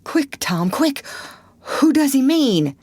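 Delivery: high crying plea; urgent frightened pleading; panicky. A narrator's reading. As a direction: Huck desperate to know. Huck panicking.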